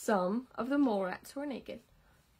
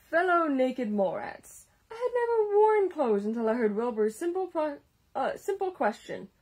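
regal voice; 3 semitones higher, 4 dB louder than usual. Acted. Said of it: "in his heroic, regal voice".

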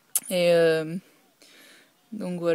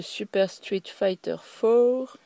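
slow English with a French accent; English game title in French-accented English, last word drawn out; poor English accent; 2 semitones higher, much slower than usual. Real, not acted. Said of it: "mon accent anglais est, laisse vraiment à désirer". (anglais avec un fort accent français)

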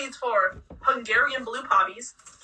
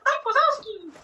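excited shout; 11 semitones higher than usual. Real, not acted. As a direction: burst out happily on "Mike Wazowski!". Spotting the plush toy.

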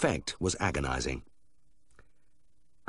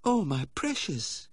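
high, slow anxious cry over the dog; fussing lady owner exclaiming; 10 semitones higher, slower than usual. Acted. Wife exclaims as the dog snaps at the vet, high and anxious. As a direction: gasp out in dismay for the darling. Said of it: "Missus Whithorn exclaimed".

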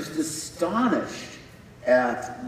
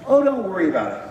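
airy brush-off, higher; dismissive reassurance; 5 semitones higher, 4 dB louder, faster than usual. Retold or imitated. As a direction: shrug it away lightly. Crew brushing him off again.

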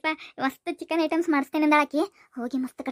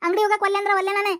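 higher-pitched refusal to mother; acted complaint, pitched up; protesting child; 4 semitones higher than usual. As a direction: object like a child being smacked. Child protests being hit by mother.

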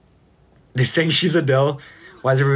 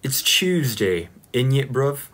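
slow put-on British slang; British accent attempt; slower than usual. Shown as a demonstration. Streamer still practising the accent, slow British slang voice. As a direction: stretch it out in mock British. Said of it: "do any British accent".

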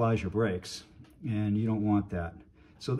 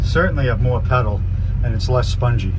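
in-car recording; 9 dB louder than usual. Real, not acted. Driving test, recorded in moving car.

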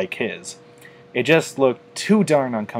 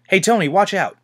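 higher, louder warning shout; 9 semitones higher, 4 dB louder, faster than usual. A narrator's reading. Rainbow Dash warning Tony of danger, shouting. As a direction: yell a warning across the street. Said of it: "Rainbow Dash shouted".

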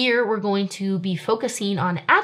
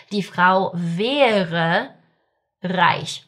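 slow model sentence; much slower than usual. Shown as a demonstration. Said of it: "teacher builds the sentence word by word".

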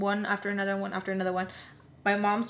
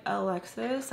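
a little attitude; 4 dB quieter than usual. Retold or imitated. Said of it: "I have a little attitude".

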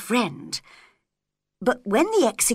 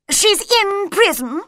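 high, loud royal snap; queen tells the executioner, loud and high; bossy queen; 10 semitones higher, 5 dB louder than usual. A narrator's reading. Queen gives orders.

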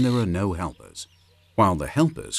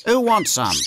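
high, loud bird-parent call; parent magpie calling; 13 semitones higher, 6 dB louder than usual. Acted. Magpie parent alerting the chicks to food, high excited call. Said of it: "They say something like".

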